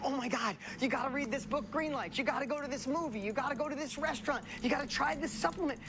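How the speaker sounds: excited acted tips, one after another; enthusiastic recommending. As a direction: gush like a friend pushing favorites. Acted friend urging recommendations.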